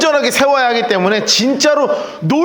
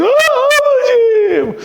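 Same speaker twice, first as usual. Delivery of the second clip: long high wail, much higher and slow; crying out father; much slower than usual. Retold or imitated. Elisha tearing his clothes, wailing for his master. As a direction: stretch the cry in grief. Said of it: "막 찢으면서".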